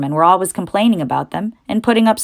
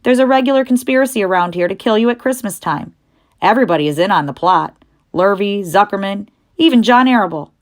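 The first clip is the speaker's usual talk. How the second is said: put-on higher, louder blunt old ewe; old sheep voice; 3 semitones higher, 4 dB louder than usual. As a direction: deliver the grim news bluntly. Old sheep describes the plot.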